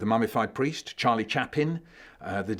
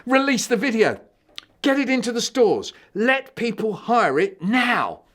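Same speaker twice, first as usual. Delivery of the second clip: much higher, loud, eager demand; excited outburst; 12 semitones higher, 9 dB louder than usual. Acted. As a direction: blurt it out like a film mogul. The speaker bursts out as a director.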